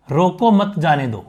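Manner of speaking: "रोको मत" साथ, फिर "जाने दो"; "मत" के बाद विराम. Shown as a demonstration. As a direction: join "रोको मत", then give "जाने दो". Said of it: "एक तो ये बात कही मैंने". ("मत" के बाद ठहराव)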